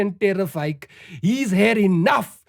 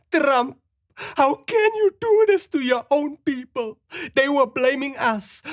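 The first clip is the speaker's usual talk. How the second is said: mock plea; 4 semitones higher than usual.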